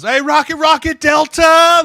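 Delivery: urgent high shouted snap call; very loud imitated cadence, last word stretched. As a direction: holler it to hurry the snap. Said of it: "like the hurry up and snap it".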